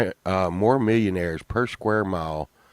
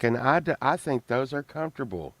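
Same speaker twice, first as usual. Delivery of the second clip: higher, softer imitated voice; imitated Sunshine; 4 semitones higher, 3 dB quieter than usual. Mimicking her defence of mom pants, lightly imitated voice. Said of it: "she's like".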